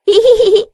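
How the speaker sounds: very high "hee-hee-hee" giggle; demonstrated laugh. Shown as a demonstration. Teacher shows children how to laugh after a joke, squeaky giggle. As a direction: put on a quick squealing titter. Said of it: "સૂચના મુજબ હસતા જઈએ".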